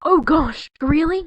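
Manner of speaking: calling out. Acted. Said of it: "you called".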